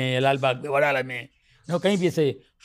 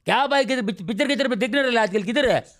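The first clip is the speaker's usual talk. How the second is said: Dharavi street lingo. Retold or imitated. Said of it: "वो same वो language आ जाती है".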